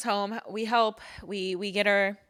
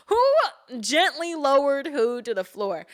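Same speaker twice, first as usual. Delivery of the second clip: high, louder, voice squeezed by laughter; laughing incredulously; 6 semitones higher, 4 dB louder than usual. Retold or imitated. Daughter retelling her answer to Mom's apology, laughing incredulously. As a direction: push the question out while cracking up. Laughing through retold comeback.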